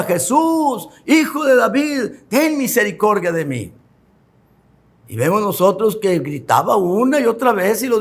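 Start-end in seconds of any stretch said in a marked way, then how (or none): 0.0-3.7 blind man crying out. Retold or imitated. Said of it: "que le gritaba".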